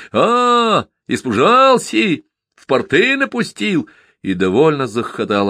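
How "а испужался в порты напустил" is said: frantic yell. A narrator's reading. Lad leaping from behind a pine at the driver, yelling. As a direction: jump out and holler to scare him. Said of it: "заорал заполошно".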